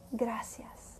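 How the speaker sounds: soft unvoiced whisper; whispered thanks. Real, not acted. Preacher closing the prayer in a whisper. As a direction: breathe the word out as a whisper.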